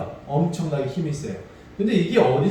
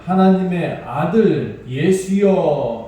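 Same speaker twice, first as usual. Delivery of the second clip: slow, louder cry of 하나님의 아들; mock outcry; 5 dB louder, much slower than usual. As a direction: call out, stretching each word. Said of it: "발 앞에 막 엎드려서 이렇게 외쳐요". (천천히 크게 외치는 흉내)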